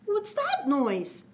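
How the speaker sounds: put-on nervous child.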